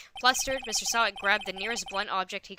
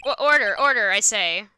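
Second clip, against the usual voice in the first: stern judge; 6 dB louder than usual. Acted. Judge calls court to order.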